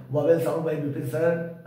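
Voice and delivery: slowly dictating a search phrase; slow dictation. Shown as a demonstration. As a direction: say vowel sound by Vipin sir slowly and clearly. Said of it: "आप search भी कर सकते हैं". (धीरे-धीरे बोलकर लिखवाना)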